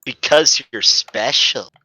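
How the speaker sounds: "Because you're special" said slowly, lightly flirty; a touch of flirting. Acted. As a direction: give it a slow teasing hint of flirt. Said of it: "I have to re-say that".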